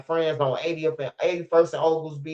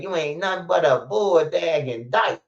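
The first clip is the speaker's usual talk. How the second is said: mama's insult again; 3 semitones higher than usual. Retold or imitated. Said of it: "She said".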